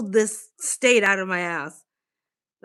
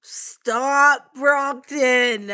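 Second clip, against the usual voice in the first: laughing protest; 6 semitones higher, 6 dB louder, much slower than usual. Real, not acted.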